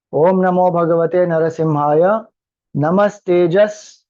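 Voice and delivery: slow, measured Sanskrit mantra recitation. Acted. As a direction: recite phrase by phrase, holding the long syllables.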